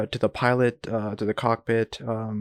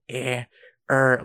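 short mock grunts of discomfort; imitated grumpy grunts; 4 dB louder than usual. Retelling the ailing seatmate's noises, imitated grumpy grunts. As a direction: imitate someone grunting in distress. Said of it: "just, like, grumpy noises".

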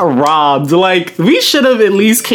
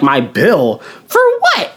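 shocked disbelief; slower than usual. Retold or imitated. Shocked at surprise charge.

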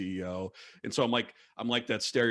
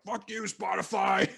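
mock crowd jeer; 9 semitones higher, slower than usual. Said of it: "people are like".

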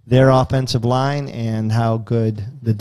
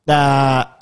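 imitated thinking ah; 2 semitones higher, 5 dB louder than usual. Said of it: "he goes".

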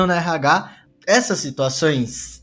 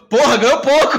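laughing; 8 semitones higher, 7 dB louder than usual. Retold or imitated. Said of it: "Falei como".

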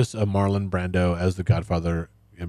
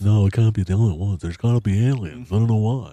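lightly put-on snooty intellectual; a hint of a pompous know-it-all. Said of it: "in my snooty intellectual voice".

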